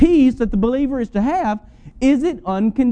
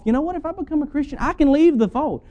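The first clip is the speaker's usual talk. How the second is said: careless believer; 6 semitones higher, faster than usual. Retold or imitated. Mock careless Christian voiced.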